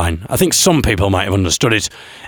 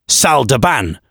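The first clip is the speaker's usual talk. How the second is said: French phrase. Shown as a demonstration. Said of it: "you'd say".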